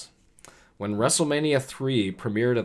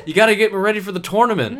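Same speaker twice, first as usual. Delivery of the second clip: a light laughing Jersey-accented imitation of the kid; lightly voiced Jersey kid, laughing; Jersey accent impression; 10 semitones higher, 7 dB louder, faster than usual. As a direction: say tournament like the Karate Kid, with a laugh. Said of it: "as Ralph Macchio would say".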